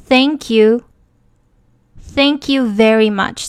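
"Thank" with tongue out between the teeth; careful, clearly demonstrated th in "Thank you"; 标准th音. Shown as a demonstration. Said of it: "舌头必须要伸出去". ("Thank" 舌头伸出来发th音)

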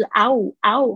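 "啊呜" run together into one "ow". Shown as a demonstration. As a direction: blend "啊呜" into a single glide. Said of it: "它念快一点的时候就是啊呜".

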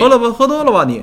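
high-pitched mock heckle; imitated heckler. Friend re-enacts the stranger butting in, high taunting imitation. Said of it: "他说".

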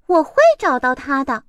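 快而带嘲弄; 猫不屑地说; mocking cat. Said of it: "猫带着嘲笑的口气说". (猫带着嘲笑的口气)

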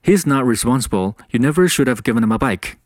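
brisk, connected English demo read. Shown as a demonstration. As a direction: speed it up, running the words together. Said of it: "你可以再快一点儿".

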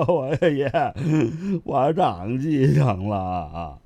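slow, sobbing plea of a chastened man; tearful submission. Acted. Chastened troublemaker answers his master, whimpering. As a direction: whimper it, drawing the words out.

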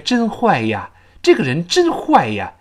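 "真坏呀" with glide into "ya"; natural linked ending. Shown as a demonstration. Teacher showing natural liaison, "真坏呀" linked with y. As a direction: let "坏" slide into "呀". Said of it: "自然变成".

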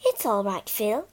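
gentle, reassuring; big sister calming Phyllis on the cliff; comforting. Acted. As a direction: soothe a frightened sister. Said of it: "Bobby comforted her".

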